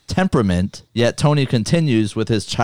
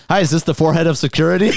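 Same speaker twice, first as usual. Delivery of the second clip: laughing; 5 semitones higher, much faster than usual. Retold or imitated. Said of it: "It was funny".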